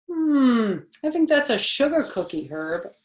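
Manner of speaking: put-on high, bright little girl voice; Junie B. voice.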